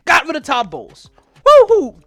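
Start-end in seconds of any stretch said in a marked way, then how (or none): 1.5-2.0 high, loud sarcastic woo-hoo; mock cheer. Fan mocking his team's joy with a loud sarcastic cheer. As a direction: cheer it out with heavy irony.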